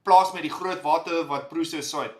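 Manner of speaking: playful Afrikaans farmer voice; hammed-up broad Afrikaans accent. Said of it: "Maybe I must say it in my Afrikaans voice".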